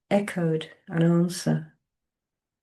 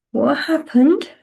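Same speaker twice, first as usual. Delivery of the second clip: put-on childlike voice; 10 semitones higher, 7 dB louder than usual. A narrator's reading. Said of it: "It was the child's voice".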